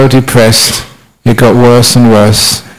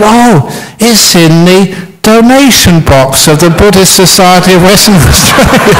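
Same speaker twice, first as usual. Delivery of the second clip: higher, pleased punchline voice; fat happy spider; 6 semitones higher than usual. Acted. Fat spider reveals his hiding place, lifted and pleased. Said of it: "He said".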